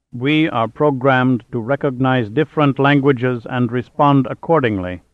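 hollow, machine-like and measured; hollow robot voice. Acted. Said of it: "said the middle robot in a hollow voice".

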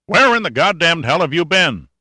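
loud, high-pitched angry demand; exploding outburst. A narrator's reading. Sandecker calling Pitt over the speaker, exploding loudly. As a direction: explode at him over the radio. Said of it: "voice exploded over the speaker so loudly".

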